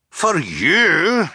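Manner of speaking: high, loud incredulous cry; captain's cry. A narrator's reading. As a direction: cry it out in disbelief. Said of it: "the captain cried".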